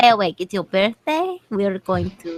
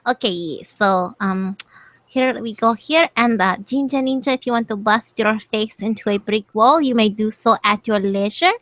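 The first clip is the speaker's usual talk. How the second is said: silly voice; 3 semitones higher than usual. Acted. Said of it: "now I'm slipping into the other thing".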